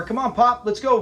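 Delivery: imitated calling out. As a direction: mimic hurrying dad along. Voices son calling his pop.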